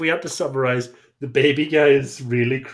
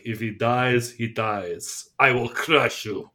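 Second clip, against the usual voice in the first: Ivan Drago; much slower than usual. Retold or imitated. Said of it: "Ivan Drago being like".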